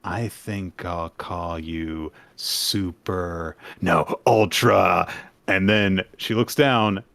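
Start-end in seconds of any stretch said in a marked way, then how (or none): 0.0-5.1 slow, low, drawn-out menace; slow villain voice. Acted. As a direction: savor each word like a villain. Voicing Yoru naming her weapon.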